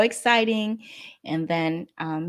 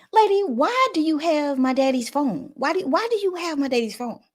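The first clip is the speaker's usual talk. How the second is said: panicked demand; 8 semitones higher than usual. Retold or imitated. Confronting the nurse, panicked.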